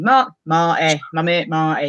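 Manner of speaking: hint of broad Yorkshire on the name; Yorkshire accent. Shown as a demonstration. Host greeting a mate in the chat, Yorkshire accent. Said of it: "gotta say it in a Yorkshire accent".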